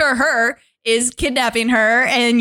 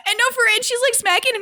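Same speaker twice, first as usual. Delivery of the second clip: laughing; 11 semitones higher, faster than usual. Real, not acted. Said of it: "laugh cry".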